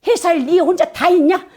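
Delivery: high, nagging mock rebuke; scolding wife. Wife scolding her tired husband home from work, high nagging tone. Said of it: "이렇게 하고 핀잔을 주기 때문에".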